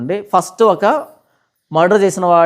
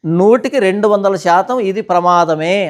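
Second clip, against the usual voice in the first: slow, deliberate title read; slower than usual. Shown as a demonstration. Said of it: "అని పెట్టాను title".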